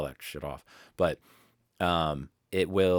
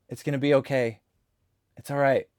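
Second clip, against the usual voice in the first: raised-pitch pet-soothing voice; reassuring the cat; 7 semitones higher, 4 dB louder than usual. Real, not acted. Calling to his crying cat to settle it, reassuring. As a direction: comfort a crying cat in a higher voice.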